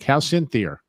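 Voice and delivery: "Cynthia" ending as "Cynthier"; Cynthia with added R. Retold or imitated. People asking after his wife, "Cynthia" ending in R. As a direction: imitate them, tacking an R onto "Cynthia". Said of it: "put an R on the end".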